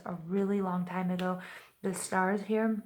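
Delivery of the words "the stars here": slow, slurred words; tongue tripping, slurred and slow; slurring. Real, not acted. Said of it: "excuse me, I'm, like, slurring".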